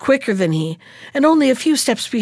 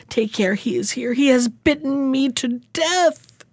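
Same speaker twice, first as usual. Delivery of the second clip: groaning; 4 semitones higher than usual. Acted. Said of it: "groaned Walter".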